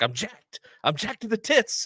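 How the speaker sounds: very high-pitched, rising scream, reined in. Speaker recounts a scene, imitating Ryan Gosling's character screaming high but not loud. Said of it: "screaming in this like high pitched voice but not too loud".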